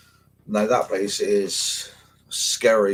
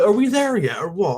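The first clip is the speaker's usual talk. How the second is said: put-on high, nagging kid voice, much higher than his own; whiny twelve-year-old; 12 semitones higher, 3 dB louder than usual. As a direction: pester like a bored child on a long walk. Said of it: "I'm turning to a twelve-year-old".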